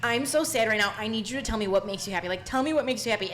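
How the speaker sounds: mock tearful plea. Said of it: "tears pouring on my face".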